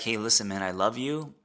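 earnest, meaning every word; sincere. Shown as a demonstration. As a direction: say it plainly and truly. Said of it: "But to actually say".

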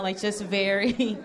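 ordinary delivery

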